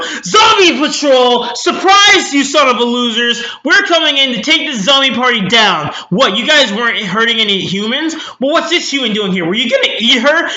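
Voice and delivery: loud, high, yelling raid announcement; hammed-up outraged cheerleader yells at the zombies; zombie patrol raid shout. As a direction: burst in shouting like a squad busting a party.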